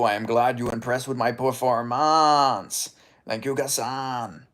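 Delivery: slow, lightly voiced GSP; a hint of the stiff champion. Streamer thanks a viewer in a light GSP voice. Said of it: "that actually sounded like G S P".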